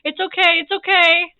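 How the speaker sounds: pleading, over-reassuring imitation; mock babying. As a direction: imitate a sister frantically soothing a hurt kid. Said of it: "she's vaping me".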